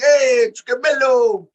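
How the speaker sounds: high, loud, drawn-out holler. Retold or imitated. Co-host mimicking a wrestler greeting Trick and Mello, high-pitched. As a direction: call out slowly in a high mocking pitch. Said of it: "talking in a higher pitched voice".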